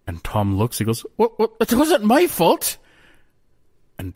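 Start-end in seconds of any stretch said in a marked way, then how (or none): 1.2-2.8 much higher, slow whiny excuse; a high, slow jester's whine; high whiny fool. A narrator's reading. Jester Tom excusing himself to the Queen, high whine.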